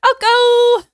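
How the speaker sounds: Alco called high and loud, O stretched long; savoring the O sound in the nickname; drawn-out O. Shown as a demonstration. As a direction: lean into the O of Alco. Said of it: "I like saying the O sound".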